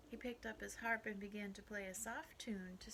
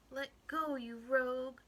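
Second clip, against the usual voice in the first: raised, loud scolding yell; little man's yell; 4 semitones higher, 8 dB louder than usual. A narrator's reading. Little man down the hole to the rabbit, yelling. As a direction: yell high at a pest. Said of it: "the little man yelled down the hole".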